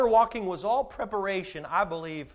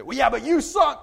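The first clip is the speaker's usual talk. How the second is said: teasing apostles; 7 semitones higher, 9 dB louder than usual. Retold or imitated. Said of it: "And they say".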